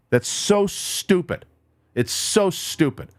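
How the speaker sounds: slow, exasperated, stretching the word so; real frustration boiling over; losing his cool. Real, not acted. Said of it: "Sorry, I'm losing my cool".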